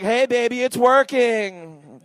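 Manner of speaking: playful come-on, dragging the last words; mock flirting. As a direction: stretch it out slowly and proudly. Acts out a silly sexy message.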